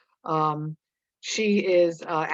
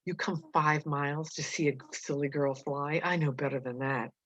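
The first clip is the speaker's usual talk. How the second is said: taunting; 4 dB quieter than usual. Acted.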